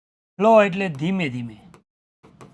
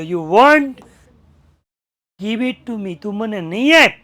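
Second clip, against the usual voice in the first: angry retort; 2 semitones higher, 7 dB louder, slower than usual. Retold or imitated. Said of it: "પાછો બોલ્યો".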